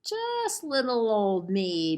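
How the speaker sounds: a lightly voiced giant booming; a hint of giant bellow; mild bellow. Giant answering the troll under the bridge, a mild bellow. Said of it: "bellowed the giant with a sniff".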